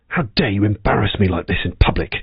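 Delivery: a low, hushed mock scold under the breath; hushed imitation of a punishing remark; imitated cold rebuke. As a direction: mutter it like a cold husband scolding his wife. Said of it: "it's probably something like".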